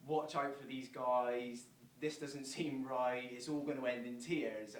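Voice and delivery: slow, deliberate warning from the sensible self; cautious inner voice. Retold or imitated. Fan's logical side warning him about the new owners, slow and cautious. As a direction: spell out the doubts slowly, like a wary voice of reason. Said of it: "The logical side is saying".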